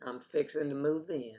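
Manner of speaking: imitated Southern US twang; American Southern accent. Host echoes guest's Southern example, American Southern accent. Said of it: "That's a good one".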